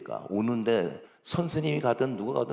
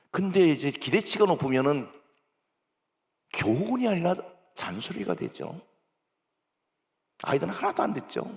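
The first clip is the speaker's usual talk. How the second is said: normal talking voice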